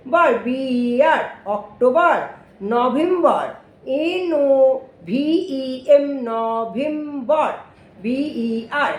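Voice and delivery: slow classroom spelling chant; patient teacher chanting letters and syllables; spelling drill. Shown as a demonstration. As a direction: spell each month slowly for the class.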